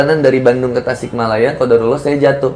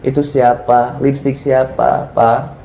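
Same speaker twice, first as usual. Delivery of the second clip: calm, understated wifely question; unhurried, kindly put query; acted gentle questioning; slower than usual. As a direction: ask mildly, without accusing. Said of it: "Tanya dulu baik-baik".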